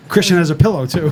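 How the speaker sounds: muffled, laughing through a covered mouth; hand over mouth. Real, not acted. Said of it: "the sound is kinda muffled".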